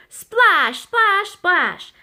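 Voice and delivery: high, loud exclaimed splash; splash effect. A narrator's reading. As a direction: make the word burst like water. Splashes in the math game.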